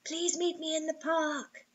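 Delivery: slow, soft, worried plea; slow distraught plea. Acted. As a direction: beg slowly, near tears. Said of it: "She sounded distraught and worried".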